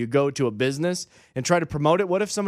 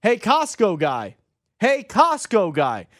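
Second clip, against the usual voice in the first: higher, drawn-out mock call; calling out to get someone's attention; imitated yell; 4 semitones higher, slower than usual. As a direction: holler it slowly across a store, not full volume. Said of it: "the guy yelled it".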